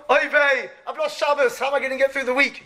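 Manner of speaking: high, fretful oy vey; worried Yiddish lament. Pretend. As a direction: kvetch it like a worried Jew. Voicing a worried Jew after Shabbos.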